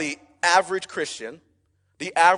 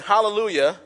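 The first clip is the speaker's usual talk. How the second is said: raised-voice mock acclamation; shouted praise; 3 semitones higher, 4 dB louder than usual. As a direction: call it out like a cheering crowd. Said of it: "They are not shouting".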